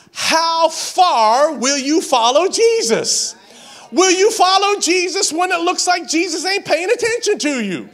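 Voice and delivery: full-force preacher shout; preaching shout. Real, not acted. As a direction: thunder it out to the church. Preaching climax.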